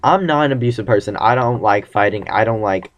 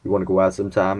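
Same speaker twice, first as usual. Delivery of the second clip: slightly lowered, soft come-on; deep flirty voice; 3 semitones lower, 5 dB quieter, faster than usual. Retold or imitated. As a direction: ask her out in a deepened voice. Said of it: "My voice got all deep".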